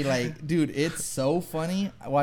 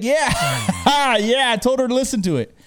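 loud, high, quick with a laugh; retold gleeful admission; 8 semitones higher, 6 dB louder than usual. Friend admitting he told his girlfriend, gleeful. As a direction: blurt it out proudly, pitched up.

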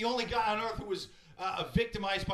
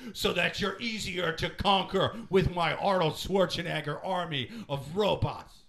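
loud, slow menacing machine voice; evil robot voice; 5 dB louder than usual. Retold or imitated. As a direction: boom it out like a villain AI. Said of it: "Its voice sounds like".

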